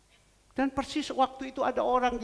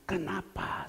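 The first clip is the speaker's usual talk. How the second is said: whispered question; slower than usual. Retold or imitated. Pastor asks quietly.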